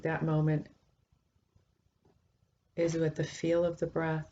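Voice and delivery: calm, measured guidance with long pauses between phrases; guided meditation. Acted. Teacher guiding listeners into a breath meditation, calm and unhurried. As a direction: lead the sitters gently, leaving space to breathe.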